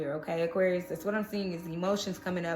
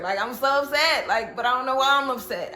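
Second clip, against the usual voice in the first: raised, louder voice of acted frustration; mildly irritated; 4 semitones higher, 5 dB louder than usual. Reader voicing an upset Pisces, mildly irritated. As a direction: complain with puzzled irritation. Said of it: "I'm feeling irritation too".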